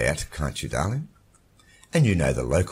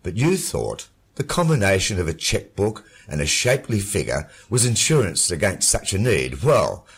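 much lower, mocking male voice; mocking husband; 12 semitones lower, 6 dB louder than usual. A narrator's reading. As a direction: taunt her coolly. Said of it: "The voice mocked".

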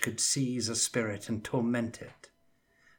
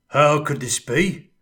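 wonder and terror; 5 semitones higher, 11 dB louder than usual. Acted. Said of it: "in a voice that held both wonder and terror".

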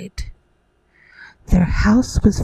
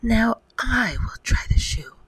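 mild storybook yell; understated sister's yell; 3 semitones higher than usual. Acted. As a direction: call it out insistently, without real volume. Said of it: "who yelled".

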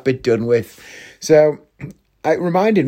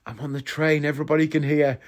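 hushed, embarrassed warning; imitating a mortified friend, much softer; 8 dB quieter than usual. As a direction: keep it down so the carriage can't hear. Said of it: "she looked embarrassed".

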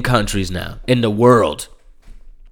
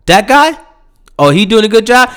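incredulous outburst; 9 semitones higher, 5 dB louder than usual. Real, not acted. Disbelieving rant about Trump praise.

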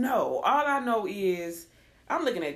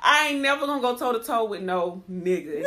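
laughing; 4 dB louder than usual. Real, not acted. Laughing through the line.

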